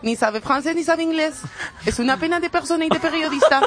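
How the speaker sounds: put-on Spanish with a French accent. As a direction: play a fussy French hairdresser. Comic French hairdresser character.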